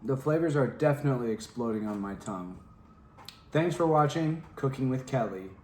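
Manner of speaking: talking with mouth full; words round a bite of pizza. Real, not acted. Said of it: "Sorry, my mouth's full".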